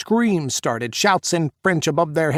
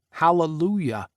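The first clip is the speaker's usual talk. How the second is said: joyful shout; 4 semitones higher than usual. A narrator's reading. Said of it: "shouted at the ceiling".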